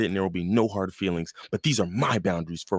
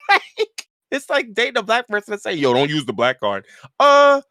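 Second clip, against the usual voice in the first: high-pitched comic outrage, bursts of shouting; incredulous ranting; 10 semitones higher, 6 dB louder than usual. Real, not acted. Comparing it to dating a black person, incredulous. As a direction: argue it from the top of your range. Arguing the absurdity by analogy.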